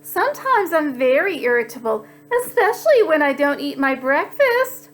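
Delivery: lightly voiced polite gentleman; proper rascal. Rascal politely answering Pete about temper. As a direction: answer primly. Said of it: "replied the rascal".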